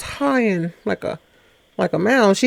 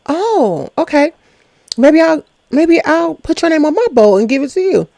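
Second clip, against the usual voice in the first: playful flirty imitation of Tay; 8 semitones higher than usual. Retelling Tay's flirty reply.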